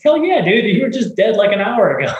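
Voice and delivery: retold joyful yell; excited retold reply. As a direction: burst out with delight. Invited to lunch by revived man.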